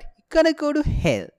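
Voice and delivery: high-pitched mock warning; threatening God.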